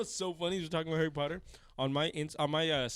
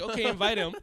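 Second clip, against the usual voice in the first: laughing; 8 semitones higher, 9 dB louder than usual. Retold or imitated. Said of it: "I was like".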